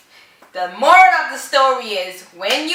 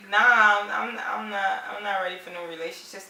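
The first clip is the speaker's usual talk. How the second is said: much softer, stammering brush-off; mimicked reluctant refusal; 3 semitones lower, 10 dB quieter than usual. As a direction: imitate him backing out quietly. Wife mimics his hesitant rejection.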